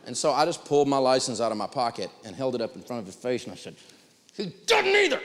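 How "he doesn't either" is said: high, pointed gotcha; triumphant retort. Retold or imitated. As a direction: land the punchline up high. Showing license to clerk, retold.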